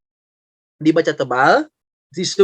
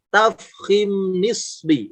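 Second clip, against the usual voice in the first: slow term demo; much slower than usual. Shown as a demonstration.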